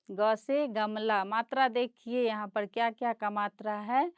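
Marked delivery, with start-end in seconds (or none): 0.1-1.2 ख से खरगोश read slowly and clearly; slow reading aloud. Shown as a demonstration. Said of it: "इसको पढ़ेंगे". (बच्चों के लिए धीरे पढ़ना)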